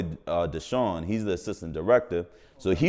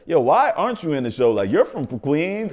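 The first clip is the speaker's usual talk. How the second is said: excited crew; 6 semitones higher, 5 dB louder than usual. Retold or imitated. Crew buzzing after his read.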